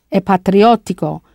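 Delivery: "patriottico" with a double T; "patriottico" with a lengthened T before "ico". Shown as a demonstration. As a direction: hold the "tt" in "patriottico". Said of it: "with that double T".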